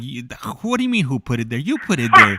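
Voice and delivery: high, laughing disbelief at his lady; you can't be serious, half laughing; incredulous. Retold or imitated. Telling his lady she moved the mouse, incredulous laugh. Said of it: "I was like".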